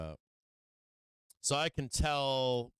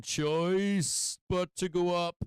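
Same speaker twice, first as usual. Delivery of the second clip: shouting at the market; 7 semitones higher, 5 dB louder, much slower than usual. Real, not acted. Yelling at the market.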